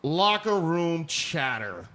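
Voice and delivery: slow, mocking quote voice; mock Trump quote. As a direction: drag it out as his excuse. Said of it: "he called it".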